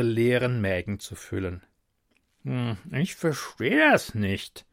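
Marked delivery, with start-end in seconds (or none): 2.4-4.7 chewing. Acted. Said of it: "sagte der Hofnarr kauend".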